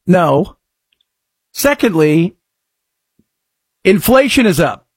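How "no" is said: ordinary talk, nothing marked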